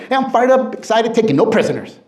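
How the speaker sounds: upbeat, pumped reply to a caller; fired-up answer. Retold or imitated. Answering a sales call, pumped and excited. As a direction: answer like you're ready to conquer the day. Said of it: "you're really excited".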